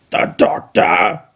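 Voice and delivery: slow, whispered robotic question; Dalek questioning. Acted. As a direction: probe it like a machine. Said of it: "the Dalek questioned".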